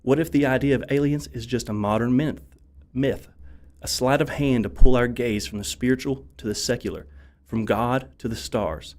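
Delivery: ominous documentary narration; dramatic intro narration. Acted.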